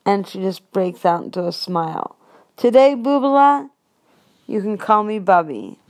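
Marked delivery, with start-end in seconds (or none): 2.6-5.8 higher, louder doting grandma; a touch of a Yiddish grandma. Retold or imitated. Grandma voiced in story.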